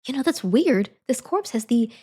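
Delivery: notice something odd and get excited; hammed-up dawning surprise; growing realisation. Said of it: "she's like".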